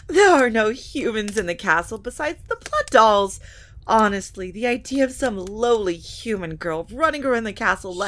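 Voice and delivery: loud, high, forced nervous protest; nervous high denial. Acted. Lilibet nervously lying to her mother. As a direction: cover the lie with nervous bluster.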